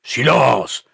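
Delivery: high, loud yelled order. A narrator's reading. Pastor quelling the murmuring room, yelling. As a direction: yell for silence. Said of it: "hurla le pasteur".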